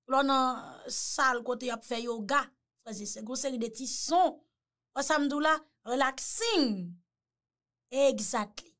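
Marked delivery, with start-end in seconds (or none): 4.9-6.9 mock spa-relaxation voice, slowed right down; soothing spa voice. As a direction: lull them like a spa massage. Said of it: "il gen yon vwa konsa".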